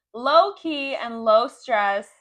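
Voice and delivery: slow, punched all-caps words; shouting capitalized words. Shown as a demonstration. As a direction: belt out the capital letters slowly. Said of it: "so I have to scream".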